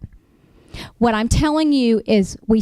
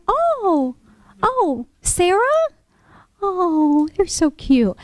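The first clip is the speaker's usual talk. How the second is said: much higher, drawn-out cooing; sugary fake delight; 8 semitones higher, much slower than usual. Attorney cooing at the boyfriend's news. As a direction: fake a sweet coo to hide the shock. Feigned sweetness on hearing of boyfriend.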